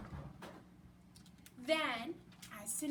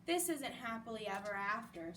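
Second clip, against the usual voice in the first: sighing; 4 semitones lower than usual. Acted. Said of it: "sighed Judy".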